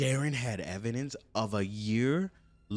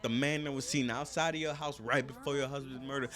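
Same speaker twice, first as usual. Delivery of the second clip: louder interrogation bark; cop yelling; 6 dB louder than usual. Retold or imitated. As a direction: lean on her like an angry detective. Cops grilling Michelle.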